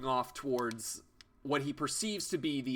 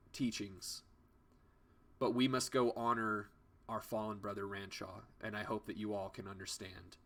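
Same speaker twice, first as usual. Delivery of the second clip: a hint of held-back grief, low and soft; a monk holding back tears, quiet and lower; lightly voiced grieving monk; 3 semitones lower, 3 dB quieter than usual. Monk bidding the party farewell, restrained sorrow.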